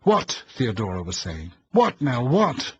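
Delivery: high, loud bewildered cry; jolted awake and confused; startled. A narrator's reading.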